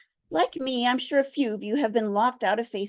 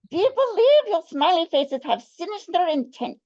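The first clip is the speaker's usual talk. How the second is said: put-on Russian accent; 4 semitones higher, 5 dB louder than usual. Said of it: "better Russian accent".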